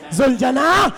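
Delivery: tearful wail, breaking at the end; weeping child's plea. Retold or imitated. Sakina begs the horse not to take her father, weeping. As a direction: imitate a small girl begging through tears. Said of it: "رو کر کہتی ہے".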